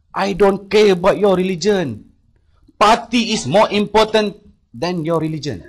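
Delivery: loud, slow, high dismissive rant; imitating a furious boss, loud and dragged out; angry scolding. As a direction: brush his faith aside, loud and slow. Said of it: "Dia maki hamun saya dalam bahasa Inggeris".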